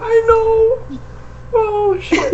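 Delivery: high, laughing reply; words breaking into laughter. Real, not acted. Still laughing.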